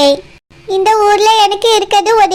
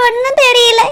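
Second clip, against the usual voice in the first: crying. Acted. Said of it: "ஏண்டாம்மா அழுதுட்டு இருக்கா".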